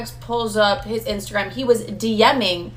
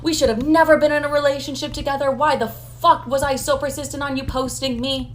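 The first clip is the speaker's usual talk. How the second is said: higher-pitched retold freak-out; 5 semitones higher than usual. Regretting the posts to her ex, retold freak-out. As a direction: recount your panicked regret, pitched up. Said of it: "Now I'm freaking out".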